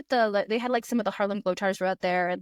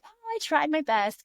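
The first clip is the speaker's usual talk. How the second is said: Miss Congeniality; 6 semitones higher than usual. Retold or imitated. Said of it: "Miss Congeniality kind of smile".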